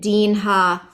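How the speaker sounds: deen ha drawn out slowly, closing A fully voiced; final A pronounced. Shown as a demonstration. Teacher showing which line endings keep their A, slow deen ha with final A. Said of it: "make sure we pronounce those A's".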